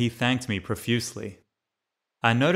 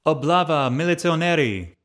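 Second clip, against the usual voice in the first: higher, louder warning cry; alarmed shout; 6 semitones higher, 5 dB louder than usual. Acted. Market crowd shouting a warning that police are coming, loud alarm. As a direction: shout out the raid to the whole market. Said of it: "There were loud cries and shouts".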